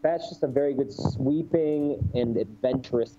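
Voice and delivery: muffled, mic covered by hand; talking with a hand over the mic; finger over the mic. Real, not acted. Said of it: "You're covering your mic".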